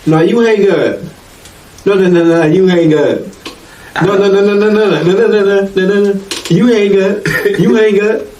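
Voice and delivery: playful lovey-dovey pleading; coy teasing on the phone; giggly late night call. Retold or imitated.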